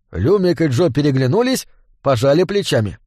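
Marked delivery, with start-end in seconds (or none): none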